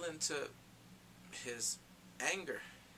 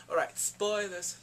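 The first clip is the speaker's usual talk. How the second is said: spoiler warning; 3 semitones higher, 5 dB louder, slower than usual. Acted.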